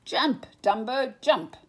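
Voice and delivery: loud urgent call; shout. A narrator's reading. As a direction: yell up to the burning house. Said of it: "shouted the clowns".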